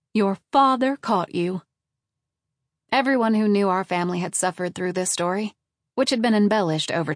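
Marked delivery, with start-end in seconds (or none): 0.1-1.6 sing-song mother. A narrator's reading. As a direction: deliver the punchline of the family legend. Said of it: "Mom would continue in her sing-song voice".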